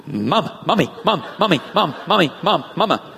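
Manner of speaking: sing-song calls for mommy; lightly voiced needy puppy calling mom. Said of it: "Guess who little Snowball bonded to".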